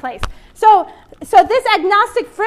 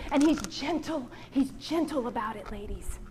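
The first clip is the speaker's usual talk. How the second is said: soft and gentle; 6 semitones lower, 12 dB quieter than usual. Real, not acted. Tender point about God's gentleness.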